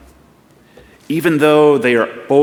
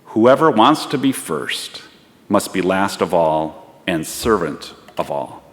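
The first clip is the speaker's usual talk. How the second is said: slow start, settling gently lower; measured and understanding, dropping away at the end; quiet, understanding, clear; 4 semitones lower than usual. Acted. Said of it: "The quiet, understanding, yet clear voice".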